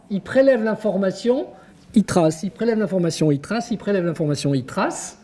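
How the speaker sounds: mechanical loop that gathers speed; repetitive, speeding up. Shown as a demonstration. Lecturer showing how pupils copy bit by bit, repetitive and accelerating.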